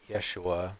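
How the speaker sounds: "Yeshua" opening on a Y sound; Y-sound pronunciation. Shown as a demonstration. Showing the Hebrew name of Jesus, "Yeshua" with a Y. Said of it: "pronounce the name of Jesus with the Y sound".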